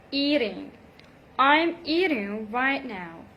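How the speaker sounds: eating with a quick D flap. Shown as a demonstration. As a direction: say eating as "eading". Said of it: "between two vowel sounds".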